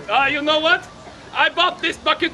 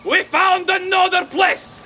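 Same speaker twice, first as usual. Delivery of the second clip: grandiose flea circus showman. Acted. Showman unveiling a terror flea.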